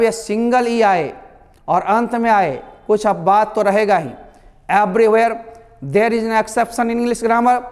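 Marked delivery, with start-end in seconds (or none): 4.7-7.6 slow. Real, not acted. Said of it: "teaching emphasis".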